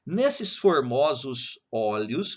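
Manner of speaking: slow, deliberate poem reading. Shown as a demonstration. Teacher reading a sonnet to students, slowly. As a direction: read each word slowly so students follow. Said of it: "vou ler devagar".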